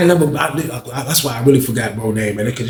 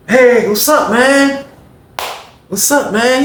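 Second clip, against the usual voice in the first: high voiced reply; 11 semitones higher, much slower than usual. The speaker answers the greeting.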